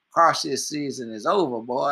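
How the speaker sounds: lightly put-on New Orleans accent; horrible New Orleans accent. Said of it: "That's a horrible New Orleans accent".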